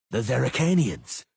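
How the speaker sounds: loud warning shout; shouted alarm. A narrator's reading. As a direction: call out the danger. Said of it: "the Witcher shouted".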